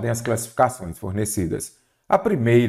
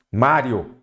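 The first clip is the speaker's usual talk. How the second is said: "Mário" with a firm stress on MÁ; stress on first syllable. Shown as a demonstration. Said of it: "paroxítona terminada em ditongo crescente". ("Mário" com a tônica no "Má")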